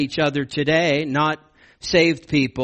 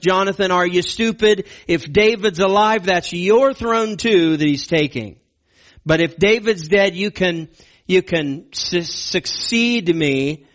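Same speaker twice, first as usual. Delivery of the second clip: higher, louder berating father; exasperated king scolding his son; 4 semitones higher, 4 dB louder than usual. Retold or imitated. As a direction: scold Jonathan as a furious father. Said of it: "paraphrasing Saul berating Jonathan".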